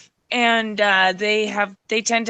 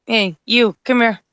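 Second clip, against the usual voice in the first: calling the dog; 5 dB louder than usual. Real, not acted. Commanding the dog.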